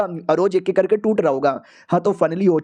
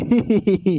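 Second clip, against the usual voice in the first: short tittering hee-hee; put-on giggle. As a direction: giggle after giving away the secret. Giggle after giving directions.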